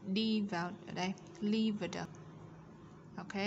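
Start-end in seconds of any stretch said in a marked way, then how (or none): 1.4-2.0 "Lived" with the final d released; teacher's careful model of "Lived", falling at the end; added d ending. Shown as a demonstration. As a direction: sound out the d closing "Lived". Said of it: "Chúng ta thêm đuôi d".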